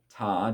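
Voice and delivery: just ta, one crisp syllable; single syllable ta. Shown as a demonstration. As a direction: say only ta as the old single tongue. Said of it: "Instead of".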